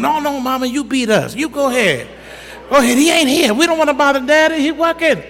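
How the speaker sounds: put-on high, quick begging kid voice; pleading kids. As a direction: plead with mama to do it herself. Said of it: "we would talk to Mama".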